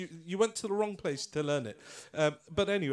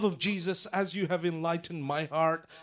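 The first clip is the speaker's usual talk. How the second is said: loud, fervent prayer in imitated American accent; 3 semitones higher, 8 dB louder than usual. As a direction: pray out loud like an American preacher. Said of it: "sorry about my American accent".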